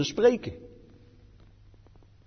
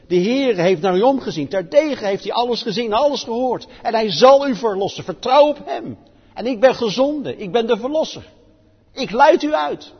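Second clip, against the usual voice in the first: raised, louder, ringing announcement of rescue; a prophet crying out deliverance; fervent proclamation; 7 semitones higher, 5 dB louder than usual. Acted. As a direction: proclaim it like a herald, slowing on the last line. Preacher voicing Moses' message of deliverance.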